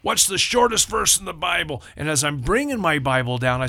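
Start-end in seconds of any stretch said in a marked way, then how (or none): 0.0-1.8 tag. Retold or imitated. Leader puts drill question to group.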